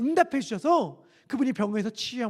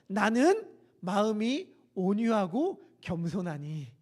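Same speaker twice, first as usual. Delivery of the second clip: gentle humble reading; 3 semitones lower, slower than usual. Shown as a demonstration. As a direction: read it meekly and slowly. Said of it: "이렇게 말씀하세요". (온유하고 겸손하게 천천히 읽기)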